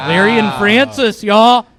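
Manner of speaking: loud hype-man call of the names; announcer-style shout; hyped shout. Acted. Comic shouts hosts' names.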